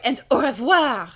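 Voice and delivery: loud, high, stretched farewell; theatrical called-out goodbye; calling out. Acted. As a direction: sing out the parting words with a flourish. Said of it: "Red calls".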